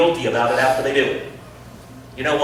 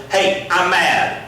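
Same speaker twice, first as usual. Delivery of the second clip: mock mad; 5 semitones higher, 4 dB louder, slower than usual. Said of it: "they let everybody know".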